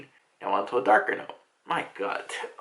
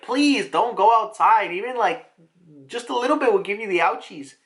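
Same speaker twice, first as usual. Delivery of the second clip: tag; 4 semitones higher than usual. Retold or imitated. Dad pleads with daughter.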